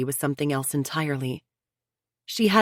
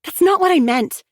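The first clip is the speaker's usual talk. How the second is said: refuting; 7 dB louder than usual. A narrator's reading. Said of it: "Chelsea refuted".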